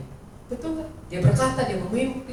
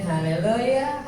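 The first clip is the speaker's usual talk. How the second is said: long, stretched, louder call of Haleluya, held slowly; drawn-out hallelujah; 5 dB louder, much slower than usual. Real, not acted. Preacher calling the congregation to praise, long and loud. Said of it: "preacher calls out to congregation".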